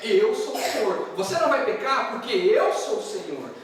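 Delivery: loud, high proclamation as God; stanowczy Boży nakaz. Acted. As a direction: thunder each command, leaning on "eu". Preacher voices God declaring commands.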